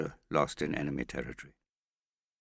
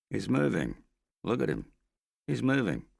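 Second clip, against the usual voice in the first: higher, louder alert; alarmed; 8 semitones higher, 5 dB louder than usual. Acted. Hester alerting the Australian that Morris stirs, alarmed. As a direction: point it out urgently.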